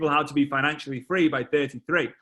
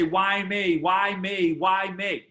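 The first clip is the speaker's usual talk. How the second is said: whiny complaint; 4 semitones higher, much slower than usual. Retold or imitated. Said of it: "sounds like whiny".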